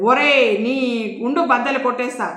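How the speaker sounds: a touch of exasperated shouting; irritated yell. Acted. Boss threatening his clumsy servant, irritated yell. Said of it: "irritate అవుతూ అరిచాడు".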